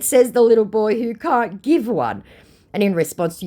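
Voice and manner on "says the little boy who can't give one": snooty high voice. Retold or imitated. Her own retort, acted.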